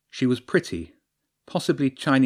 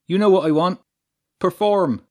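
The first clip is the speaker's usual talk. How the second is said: loud, raised showman's order; booming command; 9 semitones higher, 8 dB louder than usual. A narrator's reading. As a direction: boom it out to the stage. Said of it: "his voice boomed out of the huge speakers".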